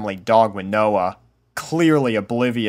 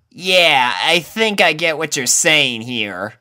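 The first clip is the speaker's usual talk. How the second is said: sporty pony; 5 semitones higher than usual. A narrator's reading. Rainbow voiced.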